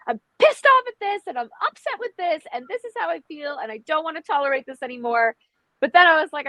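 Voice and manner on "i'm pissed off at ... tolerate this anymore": 1 mock venting. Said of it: "And I'm just like".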